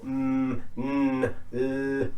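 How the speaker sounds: "mm", "n", "l" each held as a hum; voiced endings. Shown as a demonstration. Teacher letting students feel vibration, humming "mm", "n", "l". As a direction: sustain "mm", "n", "l" with the throat buzzing. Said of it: "you can feel a vibration".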